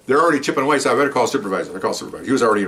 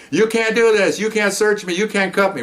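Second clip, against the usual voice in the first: much higher, mock indignant protest; imitating protesting woman; 11 semitones higher than usual. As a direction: squeal her protest up high.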